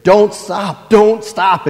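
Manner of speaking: loud, high teasing boom; big voice. Retold or imitated. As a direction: play the gruff old tickler, booming it out. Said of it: "in a big voice he would say".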